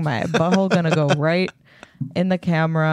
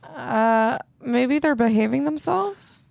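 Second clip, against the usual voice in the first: muffled headphone mic; 6 semitones higher than usual. Real, not acted. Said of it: "Anna, you're really muffled".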